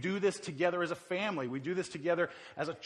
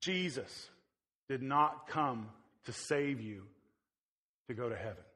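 quiet serious emphasis; 4 semitones lower, 3 dB quieter than usual. Real, not acted. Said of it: "don't miss this because this is important".

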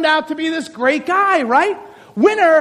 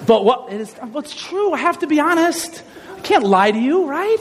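ordinary talk, nothing marked

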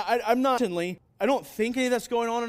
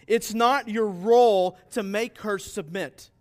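slow and louder, stressing role; emphatic; 2 semitones higher, 9 dB louder, slower than usual. Real, not acted. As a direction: drive home the word role to the husbands. Pastor stresses husbands' duty.

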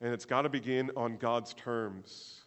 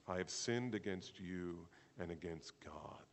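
slow, low, hushed delivery; hushed confession; 3 semitones lower, 5 dB quieter, slower than usual. Acted. Pharaoh confessing to Moses, hushed confession. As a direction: say it slowly and softly, weighing each phrase.

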